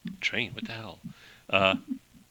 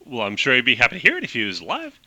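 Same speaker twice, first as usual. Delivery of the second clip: fast clipped Hepburn talk; 3 semitones lower, faster than usual. Acted. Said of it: "really fast clipped talk like Katharine Hepburn".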